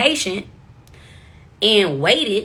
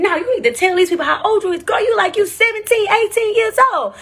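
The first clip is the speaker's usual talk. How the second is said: host voice; 11 semitones higher, 3 dB louder than usual. Retold or imitated. Host insisting she looks young.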